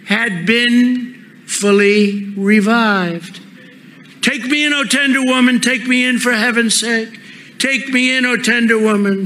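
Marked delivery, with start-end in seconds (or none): 4.2-9.3 pleading snake, pitched higher; sighing snake. Acted. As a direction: beg like a sly snake. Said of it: "sighed that vicious snake".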